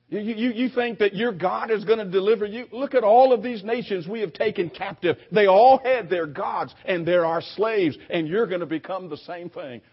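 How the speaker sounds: preacher playing an intimidating enemy envoy; acted intimidation. Assyrian envoy threatens besieged Jerusalem, acted-out intimidation. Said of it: "Intimidation, that's what that is".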